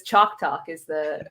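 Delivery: chalk talk said with an American R, slow; a mock American accent on chalk talk, R fully sounded; terrible American accent. Shown as a demonstration. Host mocks her own American accent for Gino, American accent. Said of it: "my terrible American accent version of that with the R".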